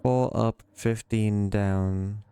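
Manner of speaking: fifteen down drawn out slowly; slow reading. Shown as a demonstration. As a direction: read it out slowly like a clue. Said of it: "clearly is referring to this".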